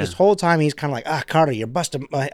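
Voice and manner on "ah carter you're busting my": put-on accent, dropping the R in Carter; gruff-boss quote slipping into a "Cartah" accent; non-rhotic "Cartah" accent. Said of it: "he doesn't have that accent".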